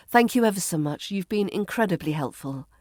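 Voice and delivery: politely effusive thanks; profuse thanks. Shown as a demonstration. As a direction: thank them profusely, quick at first. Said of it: "Always thank profusely".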